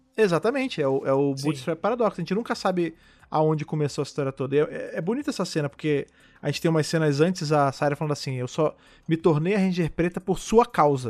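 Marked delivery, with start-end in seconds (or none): none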